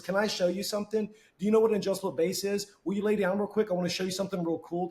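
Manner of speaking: lightly mocking a pushy salesman; eager pitch. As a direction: oversell it like a pushy rep.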